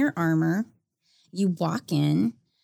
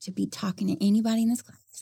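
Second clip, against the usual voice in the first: high, syrupy classroom correction; sweet firm teacher; 3 semitones higher than usual. Retold or imitated. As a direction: correct the student politely.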